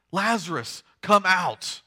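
firm projected summons; loud voice. Acted. Jesus calls the dead man out, in a firm loud voice. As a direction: call it out, pushing the last words. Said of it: "Jesus says in a loud voice".

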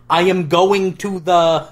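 slow, deliberate robot voice. Retold or imitated. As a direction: speak like a robot, word by word. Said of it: "You have to talk like a robot".

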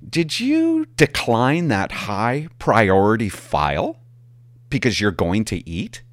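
slow, pointed imitation of the dispatcher; a dispatcher's slow, pointed question. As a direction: drag out the question like an accusing dispatcher. Dispatcher voiced in retold call.

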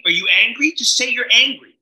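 high, incredulous mock of the ex-wife; ex-wife scoffing at his recovery jargon. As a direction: throw it back at him, baffled. Imitating ex-wife again.

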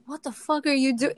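quick, sharp retold protest; defensive outburst. Busker retelling snapping at a thief, quick mock anger. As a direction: fire it back fast at the thief. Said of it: "I actually got really defensive".

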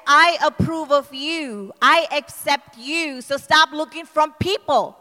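voice of God. Acted. Retelling God's words to her, slow and firm. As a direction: speak each line slowly as God's promise.

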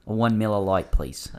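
put-on Australian accent. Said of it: "Miller Lite in an Australian accent".

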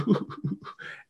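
high, soft imitated sobbing; mock crying. Cheated-on wife crying to her husband, mock sobs. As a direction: fake a thin, wailing cry. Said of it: "And she's crying, and she's like".

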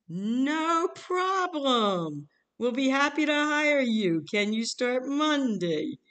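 hammed-up eager recruiter, swooping and loud; over-eager caller. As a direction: belt out the cheery reply, stretched way out. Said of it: "calls back very enthusiastic".

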